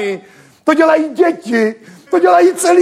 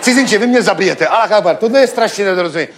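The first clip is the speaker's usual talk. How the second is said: low, pleading Arab merchant voice, lower than his own; 9 semitones lower, faster than usual. Retold or imitated. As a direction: drop low and beg like a frantic street trader. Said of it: "A on padl na kolena a říkal".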